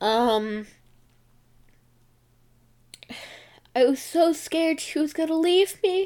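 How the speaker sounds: speaking through tears. Podcaster records an episode for listeners, crying while talking. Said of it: "now I'm crying".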